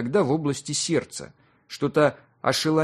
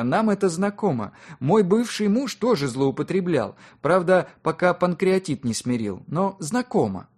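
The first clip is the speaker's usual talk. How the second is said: higher-pitched woman putting him at ease; reassuring; 6 semitones higher than usual. A narrator's reading. Woman tells host her ex drank too, reassuring. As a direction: soothe him in a lightly lifted voice. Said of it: "успокоила его женщина".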